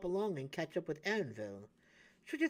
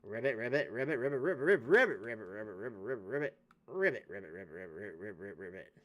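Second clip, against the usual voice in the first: toad croaking; 9 semitones lower, faster than usual. Pretend. Toad player croaking along the path, dying away. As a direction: croak on and on, trailing off.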